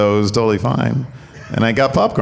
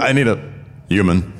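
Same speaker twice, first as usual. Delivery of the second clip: Cody crying impression. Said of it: "my Cody crying impression".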